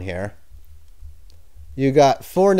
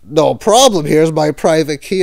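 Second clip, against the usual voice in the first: mock-eager, louder sarcastic offer; 4 dB louder than usual. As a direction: hand it over with fake cheer. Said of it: "Of course, I'm being sarcastic".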